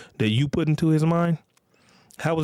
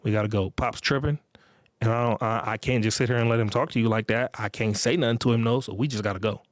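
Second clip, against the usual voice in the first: put-on calm to girlfriend. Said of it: "I'm gonna be like".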